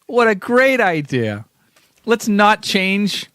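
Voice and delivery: high-pitched sarcastic enthusiasm; mock the co-host's idea with overdone approval. Real, not acted. Sarcastic answer to co-host's announcement.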